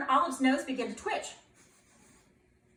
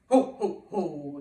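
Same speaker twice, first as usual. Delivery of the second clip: Santa laugh; 8 semitones lower, 5 dB louder, slower than usual. Acted. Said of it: "said Santa".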